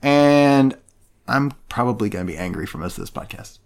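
a little tipsy, loose delivery. Real, not acted. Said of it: "I am very alcoholed".

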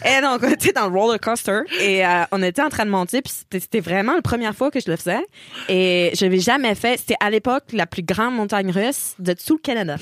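a light Québécois accent on a retold story. Telling friends her roller coaster memory in a light Québécois accent. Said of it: "l'anecdote avec l'accent québécois".

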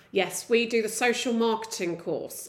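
mildly dull imitation of a course tutor; boring voice. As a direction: say it as a slightly tedious official. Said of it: "He said that in a boring voice".

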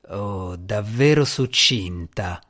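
low, slow sarcastic growl. Acted. The djinni growling sarcasm at Asmira. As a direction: snarl it out slowly. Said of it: "ringhiò il gin".

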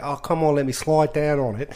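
light, badly faked Australian accent; imitated Australian girl. Telling co-hosts what the girl said, mild Australian imitation. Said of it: "when you've heard a girl say".

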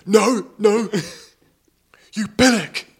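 high, loud mock yell of an angry dad; loud mock-angry dad yelling after the cyclists; mock shout. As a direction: bellow the insult like the furious father. Angry father shouting after them.

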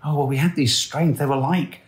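high, breezy imitation of the daughter; imitating daughter. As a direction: toss it off casually in her voice. Dad voicing daughter's reply.

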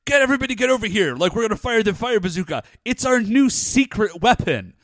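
rally the team in a hurry, imitating a hero; hammed-up urgent team leader; excited rallying call. Acts out Ryu rallying the team.

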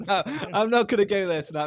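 quick words through a laugh. Real, not acted. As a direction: laugh it off while talking fast. Laughing off a teasing remark.

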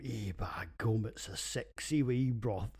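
slow, badly done Scottish impression; hammed-up Scots voice, slowly; bad Scottish accent. Quoting his Instagram post in a bad Scottish accent. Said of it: "what the hell was that".

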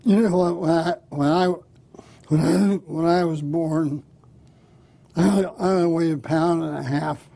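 put-on halting drunk, repeating and dragging words; drunk man. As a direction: stumble slowly through it like a drunk. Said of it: "I overheard two drunks talking".

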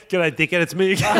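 cheerful mock greeting, laughing through it; cheeky prank caller. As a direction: greet him like an old mate to wind him up. Prank caller rings back again.

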